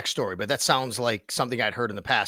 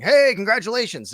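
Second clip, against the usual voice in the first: mock call-out; 9 semitones higher, 7 dB louder than usual. Cohost imitates calling out.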